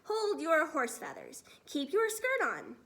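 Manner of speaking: put-on excited old giant. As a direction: hold her back, bubbling over. BFG excited.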